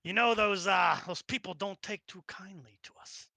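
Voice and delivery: lightly voiced Brooklyn local; Brooklyn accent. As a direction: talk like a New Yorker, Brooklyn vowels. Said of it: "I'm talking with a Brooklyn accent".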